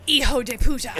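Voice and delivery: "Hijo de puta" with a flat English "hijo"; English accent. Shown as a demonstration. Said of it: "the most English way I possibly could".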